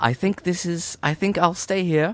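put-on English accent. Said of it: "It's either American or silly voice".

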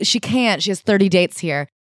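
usual speaking voice

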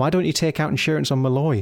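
ordinary delivery

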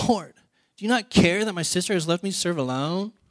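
put-on high, whiny teenage voice. Retelling a woman asking Jesus about her sister, in mock-whiny teenage voice. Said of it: "in this whiny voice, like if she was a teenager, just like this whiny voice".

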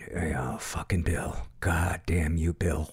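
low, slow, grumbling mumble muttered under the breath. Retelling how people in a room muttered about a guy named bill, mumbling under their breath. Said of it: "They kept just mumbling, like under their breath".

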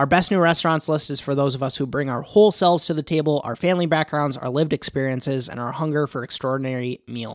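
usual speaking voice

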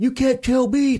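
put-on, drawn-out, very high hysterical yell. Retelling a fight in a holding tank, the speaker imitates the old man's hysterical raised voice. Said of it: "in hysterics, raising his voice".

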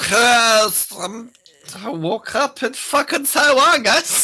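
put-on very high, woozy, drawn-out drunken drawl. Showing how to do the politician impression: Nancy Pelosi sounding drunk. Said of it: "You just have to sound drunk".

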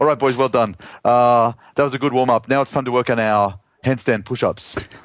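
put-on Lebanese accent. Retelling what the guy leading the workout told the boys, in a put-on Lebanese accent. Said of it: "I'll put on my Lebanese accent".

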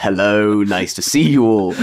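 put-on slow, plummiest upper-crust posh accent. Retelling his own radio demo greeting: imitating own plummy accent. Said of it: "the plummiest accent".

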